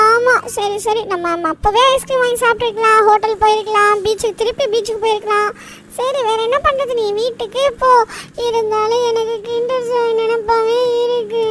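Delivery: whiny regrets ending in a long wail; acted crying. Boy still pining for his Kinder Joy, acted crying. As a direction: whine on, then stretch the end into sobbing. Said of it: "நீ எதுக்குடா அழுதுகிட்டு வர?".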